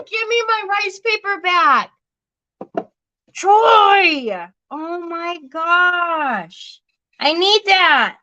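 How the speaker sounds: high, playful mock outrage; mock protest. Mom to her son who grabbed her rice paper, high mock outrage. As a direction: squeal for it back, half-joking.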